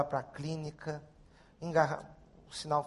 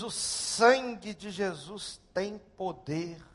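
slow, measured declaration of faith; deliberate, drawn-out quoted prayer; slow retold prayer; 2 semitones higher, much slower than usual. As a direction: say it slowly, word by word. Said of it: "Quando ele diz".

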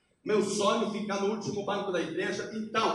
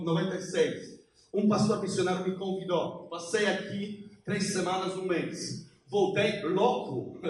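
Polish accent Portuguese; 2 semitones lower than usual. Real, not acted. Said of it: "desculpa meu português".

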